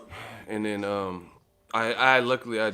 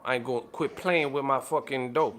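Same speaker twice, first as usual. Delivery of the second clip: Rapper impression; 3 semitones higher than usual. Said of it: "she sound like Birdman".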